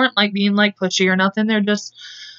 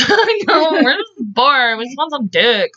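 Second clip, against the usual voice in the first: drawn-out, high mock complaint; mock bored whine; 5 semitones higher, slower than usual. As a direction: whine it playfully, stretching the words. Hammed-up quote of bored girls.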